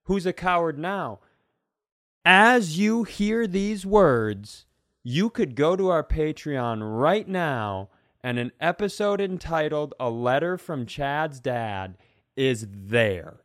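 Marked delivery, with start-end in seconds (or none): 2.2-13.4 grand announcement. Pretend.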